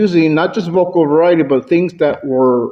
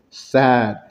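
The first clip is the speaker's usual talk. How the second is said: low, downcast delivery; sad; 4 semitones lower, 4 dB quieter than usual. Shown as a demonstration. Speaker demonstrating a range of emotions, low and sad. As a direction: drop the voice into sadness. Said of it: "you can have a range of emotions".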